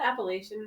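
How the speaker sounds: Appalachian said as appa-LAY-shun; Appalachian with long A. Shown as a demonstration. Co-host querying a place name, Appalachian as appa-LAY-shun. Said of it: "Can we call it".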